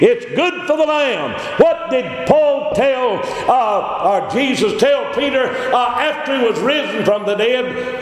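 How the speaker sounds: high, slow, ringing sermon climb; fervent preaching. Acted. Preacher exhorting the congregation, ringing and high. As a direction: drive the point home to the flock.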